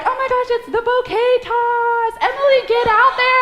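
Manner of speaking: high, loud excited mimicry; hammed-up friends pushing her out for the bouquet. Friends urging her at bouquet toss.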